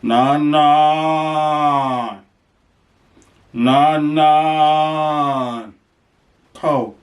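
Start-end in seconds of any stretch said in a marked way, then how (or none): 0.0-5.7 cow calling. Pretend. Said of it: "I'm gonna say".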